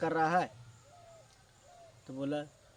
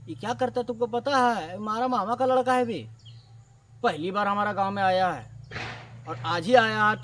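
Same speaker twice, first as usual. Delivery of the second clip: loud scolding rebuke; retold telling-off; 2 semitones higher, 5 dB louder than usual. Scolding the shopkeeper over the cousin, loudly. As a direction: tear into him, loud and fed up.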